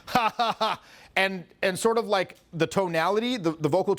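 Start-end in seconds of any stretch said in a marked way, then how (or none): 0.1-0.8 rambunctious laugh. Shown as a demonstration. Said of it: "raucous sort of rambunctious energy".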